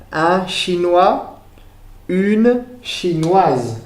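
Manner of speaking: un chinois, une chinoise said slowly, the final s of chinoise heard as z; slow model. Shown as a demonstration. Teacher shows the class the feminine ending, slowly. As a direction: spell it out with the voice, slow and clear. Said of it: "termina por una consonante".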